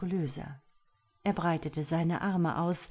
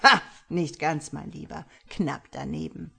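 malicious mockery; 5 dB louder than usual. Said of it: "Luc lachte boshaft".

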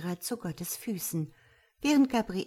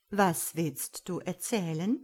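unhurried, mild invitation; gentle. Acted. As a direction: gently coax her to tell. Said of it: "sagt Gott sanft".

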